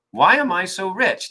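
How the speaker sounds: slow, puzzled "why am I so rich?"; curious brain. Retold or imitated. The brain ponders the new question, slow and curious. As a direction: muse it slowly as if genuinely wondering. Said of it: "your brain goes".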